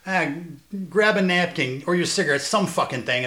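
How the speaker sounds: loud, high Chicago tough guy; Chicago cop impression. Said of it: "he was like".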